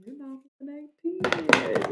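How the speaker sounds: playful imitation of grandma; quoting grandma. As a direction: toss off nana's line quickly. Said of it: "that was what she was saying".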